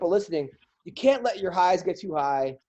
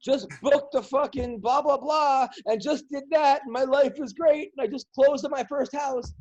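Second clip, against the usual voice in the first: a mocking, higher show-off voice for smug posts; sing-song parody of someone bragging online; 6 semitones higher than usual. Comic mocking friends' smug Facebook posts, in a higher parody voice.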